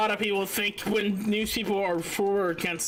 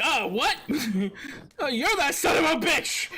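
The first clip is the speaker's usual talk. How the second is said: mock outrage; 6 semitones higher than usual. Trump turning on the reporter, mock outraged shout. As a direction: play the betrayed boss, hammed-up.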